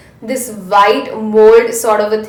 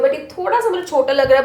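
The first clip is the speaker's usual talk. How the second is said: Hindi-English code-switching; switching languages midsentence; 3 semitones higher, much faster than usual. Real, not acted. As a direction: swap between English and Hindi mid-line.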